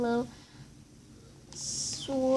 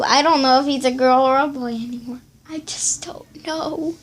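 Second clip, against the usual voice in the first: whispering; 11 dB louder than usual. Real, not acted. Puzzled aside, half-whispered.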